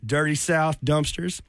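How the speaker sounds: breathless, slowed by panting; short of breath, catching air between words. Real, not acted. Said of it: "Sorry, I'm catching my breath".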